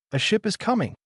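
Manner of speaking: high-pitched excited sighting of a ship; excited announcement. A narrator's reading. Luffy suddenly spotting an approaching ship, excited. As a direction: call out the sighting, pitch jumping well up.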